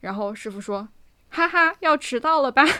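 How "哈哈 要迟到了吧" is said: loud, snide, mock-sarcastic needling. Retelling a taxi driver's remark about being late: imitating a snide sarcastic tone. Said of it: "就有点阴阳怪气".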